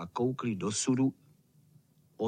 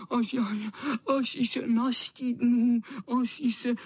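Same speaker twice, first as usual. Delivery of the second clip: high stammering whimper; 8 semitones higher, slower than usual. Acted. Wet cat whimpering to the boys. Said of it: "kňučel".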